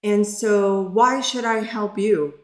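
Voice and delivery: retold yell. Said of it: "yelling at me".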